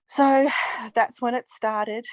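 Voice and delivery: slow, sighing and tearful. Real, not acted. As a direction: hold back tears as you say it. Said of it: "I'm getting all teary".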